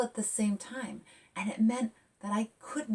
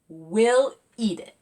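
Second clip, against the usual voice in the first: loud eager promise; 9 dB louder, slower than usual. Acted. Zora reassuring her father, loud and eager. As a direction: promise it with gusto.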